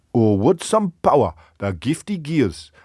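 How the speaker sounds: put-on Scottish accent sliding toward Sunderland; Scottish accent attempt. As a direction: recite Burns in a wobbly Scottish accent, nearer northeast England. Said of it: "thinks it was from Sunderland".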